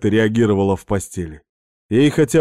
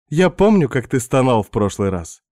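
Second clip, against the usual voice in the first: Svetka's voice; 2 semitones higher than usual. Acted. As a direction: play the pushy houseguest luring him in. Narrator voices seductive Svetka.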